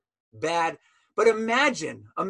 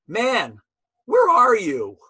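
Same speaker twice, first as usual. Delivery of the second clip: calling out; 4 semitones higher, 4 dB louder, slower than usual. Retold or imitated. Rabbi calling out to prisoner.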